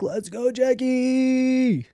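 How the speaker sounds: high, slow, drawn-out cheer; excited cheer. Real, not acted. Streamer cheering on Jackie, slow high excited cheer. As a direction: stretch the name out like cheering her on.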